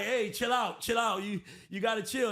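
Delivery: high, loud mock Trump; Trump calming. Host mimics Trump telling Israel to chill, high and loud. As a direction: hype him down, loud and high. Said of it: "Trump is like".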